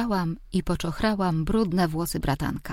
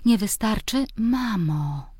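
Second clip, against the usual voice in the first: raised voice; 4 semitones higher, slower than usual. Acted. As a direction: push back, voice slightly raised. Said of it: "podniosłam głos".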